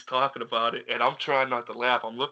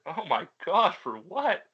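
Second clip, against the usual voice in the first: higher, mildly mocking upset voice; retold dismay, pitched up at the end; upset disbelief; 5 semitones higher, slower than usual. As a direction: imitate someone baffled and upset. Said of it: "I heard it in his voice".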